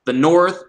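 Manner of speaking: NORTH with a long drawn-out O; elongated vowel. Shown as a demonstration. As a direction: stretch the O in North slowly. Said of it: "he elongates his vowels".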